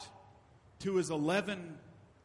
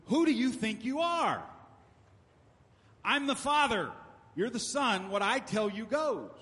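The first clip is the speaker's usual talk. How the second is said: louder, higher, commanding father putting his son in place; stern father's rebuke; 5 semitones higher, 4 dB louder than usual. Retold or imitated. Father rebuking his sassing son, stern and loud. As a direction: boom it down like a dad ending the argument. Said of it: "he responded with".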